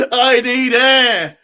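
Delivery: slow, laughing and near tears; laughing breathlessly. Real, not acted. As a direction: gasp it through laughter.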